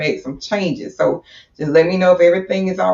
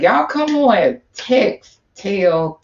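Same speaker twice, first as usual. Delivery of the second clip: high, eager rallying call; hyped call to viewers; 3 semitones higher, much slower than usual. Real, not acted. Host rallying viewers to share the stream, hyped. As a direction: rev up the audience.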